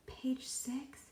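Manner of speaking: soft whisper; as quietly as he could. A narrator's reading. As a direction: barely breathe the words. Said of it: "Todd answered as quietly as he could".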